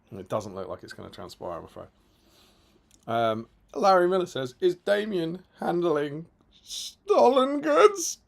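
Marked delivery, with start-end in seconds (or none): 4.6-8.2 slow, higher mock accusing read; mock-suspicious question. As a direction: drag out the accusation slowly. Reading a chat message aloud.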